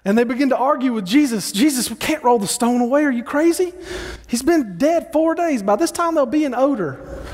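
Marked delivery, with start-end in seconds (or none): 1.5-7.2 exasperated protest, pitched higher; arguing mourners. Retold or imitated. Mourners protesting to Jesus, incredulous and higher. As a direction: push back like an incredulous crowd.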